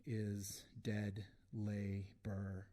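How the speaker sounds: measured poetry reading with deliberate pauses; poem recitation. Real, not acted. Poet reading to an audience, deliberate recitation. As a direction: set each image apart, weighing the words.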